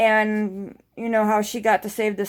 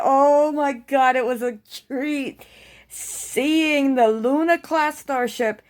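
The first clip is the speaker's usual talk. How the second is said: excited gush; 3 semitones higher, slower than usual. Real, not acted. Gushing over the Titan.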